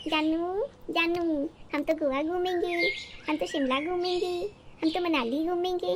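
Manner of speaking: light mock of lovey-dovey promises; lightly voiced eager boyfriend, sing-song; sweet-talking husband. Wife mimics husband's promises before marriage, light mock sweetness. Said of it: "शादी से पहले तुम क्या कहते थे".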